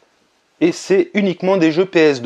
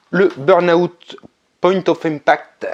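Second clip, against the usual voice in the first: slow English title in a French accent; 3 semitones higher, slower than usual. Real, not acted. YouTuber showing viewers a game title, French-accented English. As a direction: read out the English name slowly with a French accent. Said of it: "avec mon magnifique accent".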